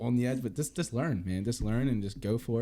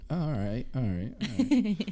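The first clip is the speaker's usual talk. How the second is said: higher, drawn-out mock reaction; Joe Rogan; 6 semitones higher, slower than usual. Host imagining Rogan hearing the shout-out, mock reaction. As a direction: imitate a podcast host reacting, pitched up. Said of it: "Rogan's be like".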